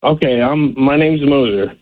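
muffled speakerphone introduction; indistinct, run-together words on speakerphone; muffled and slurred. Real, not acted. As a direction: slur the name slightly, muffled down the phone. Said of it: "a bit muffled and slurred".

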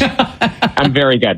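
laughing, slowed down. Real, not acted. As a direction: laugh through the words. Laughing at the praise.

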